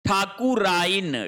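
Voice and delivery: ठाकुराइन with a long ठा, said slowly; wrong form, slow. Shown as a demonstration. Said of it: "ठाकुराइन नहीं होगा". (ठाकुराइन धीरे, गलत रूप)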